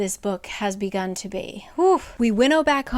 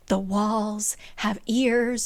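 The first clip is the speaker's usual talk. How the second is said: weird, wary; much slower than usual. Retold or imitated. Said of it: "she gets really weird".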